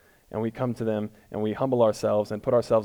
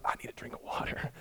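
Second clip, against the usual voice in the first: dry, breathless whisper; hoarse whisper; 14 dB quieter than usual. Pretend. Pastor joking about praying himself parched, whispering. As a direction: whisper like your throat is spent. Joke about crying out too long.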